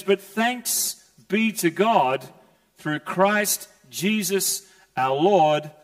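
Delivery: slow, emphatic thanks; exclaimed praise. Acted. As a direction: proclaim it as a cry of praise. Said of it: "exclamation mark".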